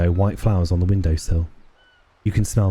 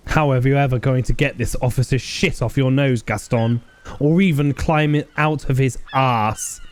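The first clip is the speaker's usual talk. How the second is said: mildly scornful character voice, pitched higher; disdainful; 5 semitones higher than usual. Acted. Old player scolding Gaston for flattering the officer, disdainful. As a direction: scold him with a touch of disdain. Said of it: "shakes his head in extreme disdain".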